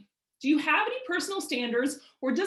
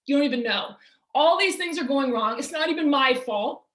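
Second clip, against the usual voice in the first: whiny complainer; 3 dB louder than usual. Retold or imitated. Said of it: "I'm gonna have some people going".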